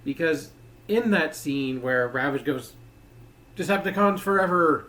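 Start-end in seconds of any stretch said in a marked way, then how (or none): 3.6-4.9 put-on hammy Russian accent; mock Russian accent, raised; bad Russian accent. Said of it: "in a really bad Russian accent".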